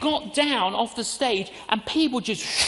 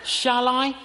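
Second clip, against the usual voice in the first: higher, louder shall I; debating aloud, higher; hesitant question, raised; 4 semitones higher, 5 dB louder than usual. Shown as a demonstration. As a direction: ask yourself, lifted up. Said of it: "I get a quiver in my liver".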